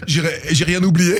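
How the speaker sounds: said through laughter; laughing. Real, not acted. Host joking he forgot nothing, laughing. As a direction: keep laughing as you speak.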